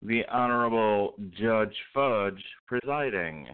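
courtroom bailiff calling order; slow formal court announcement. Acted. Mock court opening announcement.

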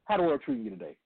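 words breaking up over the line; choppy, cutting-out phone line; call dropping out. Real, not acted. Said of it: "Listen, you're breaking up".

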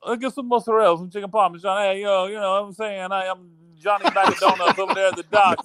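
high-pitched cartoon Jersey wise guy; hammed-up Jersey accent. Shown as a demonstration. Mocking his co-host's mozzarella order, hammed-up Jersey accent. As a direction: parrot him in an exaggerated Jersey dockworker accent. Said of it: "I can do a Jersey accent".

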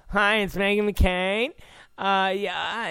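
lightly mocking Valley girl; a hint of a ditzy Valley girl; Meghan McCain. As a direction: vapid greeting that lifts at the end. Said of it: "a retarded Valley girl".

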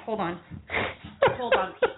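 ordinary delivery

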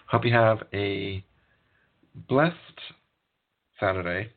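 hiccuping through the words; with the hiccups. Real, not acted. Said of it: "got the hiccups".

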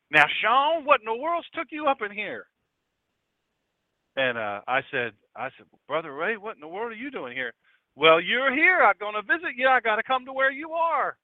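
imitating a Mississippi pastor; Mississippi accent. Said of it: "he had a real heavy Mississippi accent".

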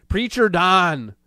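mock-grand nickname; mocking nickname, drawn out. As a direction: sneer it like a preacher's name.

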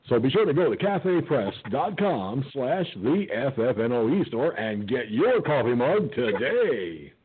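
upbeat hammed-up sales pitch; cheesy ad read. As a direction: sell the mug like a radio ad. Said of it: "cheesy plug over".

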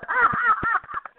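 a burst of real laughter, high and bright. Real, not acted. Host laughing at being on the cover, high laugh.

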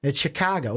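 Chicago with a flat open "Ka"; local Chicago. Shown as a demonstration. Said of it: "It's that C A, that Ka".

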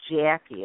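"Jackie" with a long, different Midwestern A. Shown as a demonstration. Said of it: "a different kind of an A".

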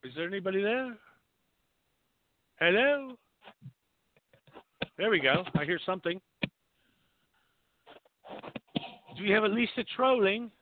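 lightly put-on English phone voice; English accent. Real, not acted. Host calling out to a silent caller, slight English accent. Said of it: "I have an English accent".

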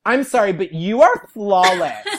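high, loud fangirl gush; losing it, starstruck. Retold or imitated. Star-struck fan blurting to a singer, gushing loudly. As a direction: blurt it out, overcome with admiration. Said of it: "I just, like, lost it".

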